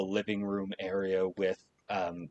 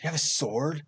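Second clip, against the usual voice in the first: high, tumbling questions; eager kid; 6 semitones higher than usual. Acted. Boy asking the adventurer about swords, high and eager. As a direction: pepper him with questions.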